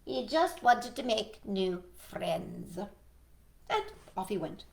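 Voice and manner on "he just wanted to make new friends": lightly voiced, slow old beetle; a hint of an old, measured character; wise old beetle. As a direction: offer it slowly, like a sage. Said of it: "said the wise old beetle".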